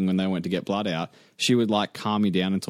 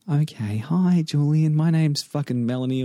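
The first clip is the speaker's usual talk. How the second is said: slightly raised, lightly voiced timid nurse; a hint of a mousy nurse introducing herself; 3 semitones higher than usual. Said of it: "this little mousy nurse".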